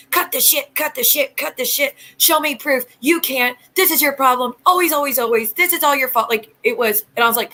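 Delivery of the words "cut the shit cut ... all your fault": reading out a furious message in a half-raised voice; retold angry cussing. Streamer reading a viewer's angry messages, mild mock yell. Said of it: "Like, all caps, all exclamations".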